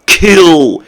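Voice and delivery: slow, emphatic mock death threat; exaggerated, fed-up venom; mock outrage. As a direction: draw out each word like a hammed-up verdict. Acted disgust at main character.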